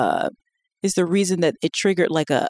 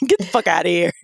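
smooth flashy pimp swagger; 2 semitones lower than usual. Retold or imitated. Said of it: "use the pimp voice at home".

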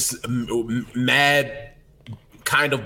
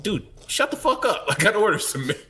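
imitating annoyed barista; 8 semitones higher than usual. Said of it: "They're just like".

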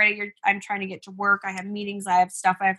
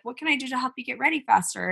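softer, higher-pitched gentle question; calm asking; 4 semitones higher, 5 dB quieter than usual. Retold or imitated. Mom asking her son how to help, calm and soft. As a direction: imitate a calm parent offering help. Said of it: "And I was calm".

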